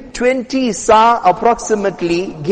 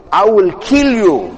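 slow, measured mock threat; acted threat, drawn out word by word; enraged threat. Enraged Umar threatening Zayd, acted slow threat. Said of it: "bloodshot red".

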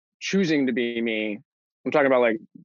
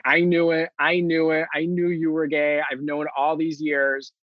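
laughing; 4 semitones higher than usual. Retold or imitated. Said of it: "She immediately bust out laughing".

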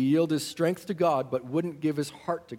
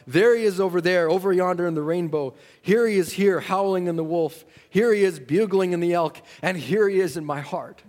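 ecstatic praise; 3 semitones higher, 4 dB louder than usual. Retold or imitated. Retold ecstatic cry on mountain.

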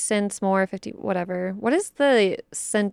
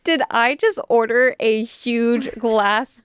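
dismayed inner voice; 2 semitones higher, 4 dB louder than usual. Retold or imitated. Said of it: "And I was like".

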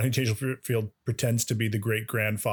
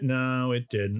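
mock letdown; much slower than usual. Acts out hopes being dashed.

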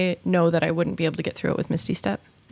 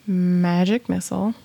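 whisper. Real, not acted. Dramatic spell declaration.

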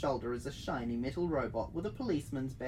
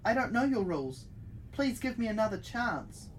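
pleading; 6 semitones higher than usual. Acted. Player character pleading.

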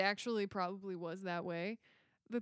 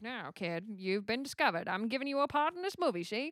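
put-on old Hollywood producer. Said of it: "Anytime anyone's like".

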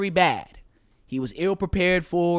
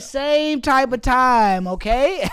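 hyped; 10 semitones higher, 6 dB louder than usual. Retold or imitated. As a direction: stretch it out, all hyped up. Retold hyped reply to homie.

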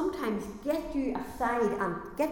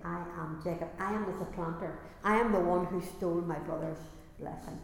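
quiet admission; 3 semitones lower than usual. Acted. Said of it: "he was ready to say".

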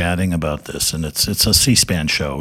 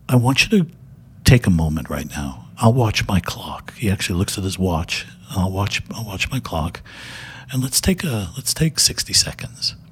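a light hint of Mister Rogers, unhurried and calm; Fred Rogers. Mister Rogers addressing TV executives, lightly voiced gentle calm. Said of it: "he starts talking like Mister Rogers".

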